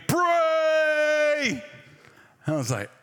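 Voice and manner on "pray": sudden high shout of a command; screaming. Retold or imitated. Holy Spirit in a dream screaming at the preacher, loud shout. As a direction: yell it right in his face. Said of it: "started screaming".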